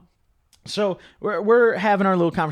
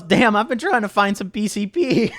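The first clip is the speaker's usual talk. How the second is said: laughing while quoting; 4 semitones higher than usual. Retold or imitated. Retelling her shocking request.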